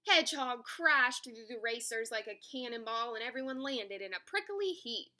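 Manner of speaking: animated picture-book reading; story narration. A narrator's reading. Narrator telling children about an animal race, story narration. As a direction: tell it to young children.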